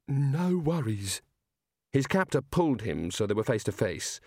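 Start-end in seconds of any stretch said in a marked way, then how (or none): 0.1-1.2 drunk Aussie attempt. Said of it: "Rincewind's beer said".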